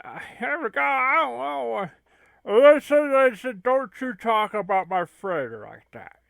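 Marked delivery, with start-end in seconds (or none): 2.5-6.2 sharp burst on listen, then firm; a hint of offended anger; indignant scolding. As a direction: tell them off for the insult. Scolding defender of freighter.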